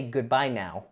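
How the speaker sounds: "Goodbye now" falling to a firm stop on "now"; statement tune. Shown as a demonstration. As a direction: say it as a closed statement, dropping at the end. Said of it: "Since there's a period there".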